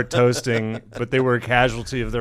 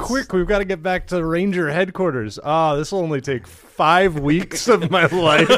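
mock comic-strip ranger; 4 semitones higher than usual. Mock Mark Trail comic hero.

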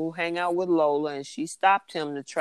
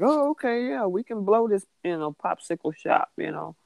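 eager agreement; 5 semitones higher than usual. Retold or imitated. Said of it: "And then she was like".

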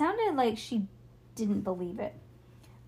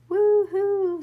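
loud high hooting call; bird call; 11 semitones higher, 9 dB louder than usual. Acted. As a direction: hoot out of the side of the mouth. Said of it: "on the other side of her mouth".

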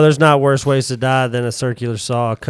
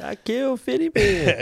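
higher, slow codger impression; quoting old man; 13 semitones higher, 4 dB quieter, slower than usual. Listener repeating a favorite line, cranky veteran impression. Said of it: "one of my favorite lines".

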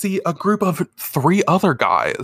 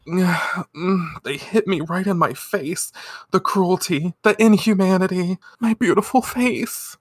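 high dramatic lament; hammed-up vain whine; mock anguish; 6 semitones higher than usual. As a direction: wail it like a vain diva. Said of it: "she's like".

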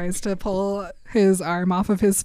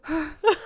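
acted-out dramatic gasp; mock gasp, playing up the drama; sharp put-on intake of breath; 7 semitones higher than usual. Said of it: "And then he just".

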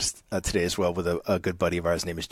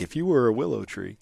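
quirky icebreaker. Retold or imitated. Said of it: "don't think you gotta be like".

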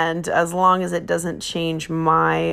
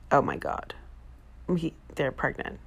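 whispered inner panic, softer; panicked thought; 4 semitones lower, 10 dB quieter than usual. Retold or imitated. Mother hearing son's news, whispered inner panic. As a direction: breathe it out like a silent dread.

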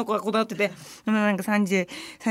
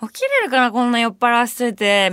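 甘えた酔っ払い女子. Retold or imitated. 酔った女の子の声を真似る.

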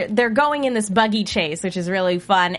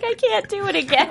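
higher, mock dramatic; high dramatic quote; 11 semitones higher than usual. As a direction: play it as melodrama. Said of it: "Just like".

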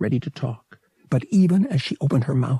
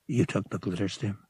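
quiet; 7 dB quieter than usual. Acted. Vic quietly asks Bria on the dark jungle path, hushed. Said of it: "he said quietly".

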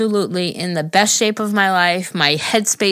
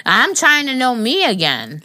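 slow and higher, on the edge of crying; tearful; 5 semitones higher than usual. Real, not acted. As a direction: voice welling up with real tears. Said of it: "Why am I crying?".

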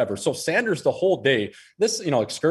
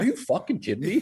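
higher, laughing mock outrage; disgusted laughing; 7 semitones higher than usual. Teammate hearing who stole his pen, laughing. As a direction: fake disgust through laughter. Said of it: "He's like".

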